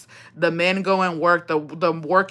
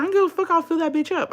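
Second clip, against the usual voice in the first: mock defiant; 10 semitones higher than usual. Jacobo retold defiant.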